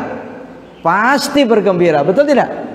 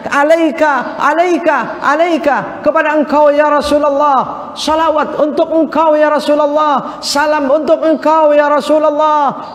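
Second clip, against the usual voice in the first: raised, high-pitched, measured calls; fervent devotional address; 5 semitones higher than usual. Acted. Preacher voicing worshippers greeting the Prophet, fervent high-pitched calls. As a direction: call out each phrase in the same high, insistent cadence.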